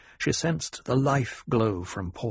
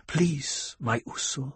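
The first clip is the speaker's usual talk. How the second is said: gentle plea; 3 semitones higher, 6 dB quieter, slower than usual. A narrator's reading. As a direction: soothe him softly. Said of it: "Chaney pressed him back gently".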